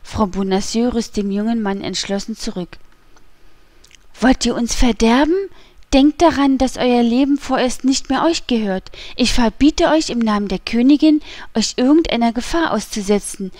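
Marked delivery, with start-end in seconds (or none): 4.2-13.5 forceful, insistent warning; urgent reproach. Acted. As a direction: forbid it firmly and urgently. She holds him back, forbids danger. (eindringlich mahnend)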